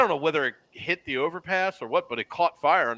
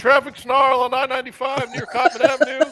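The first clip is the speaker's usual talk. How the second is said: excited traffic copter report, higher; traffic reporter; 9 semitones higher than usual. Pretend. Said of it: "Ian Mitchell in the Intercot traffic copter".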